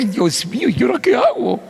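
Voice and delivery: high-pitched, frantic father at a loss; hammed-up parental panic; mock desperation. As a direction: plead helplessly, voice climbing high. Flustered father retells his helplessness.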